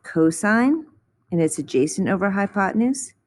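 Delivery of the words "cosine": cosine said KOH-sign; careful cosine with long o, long i; pronunciation of cosine. Shown as a demonstration. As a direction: say cosine slowly, rising at the end. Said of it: "This one is pronounced".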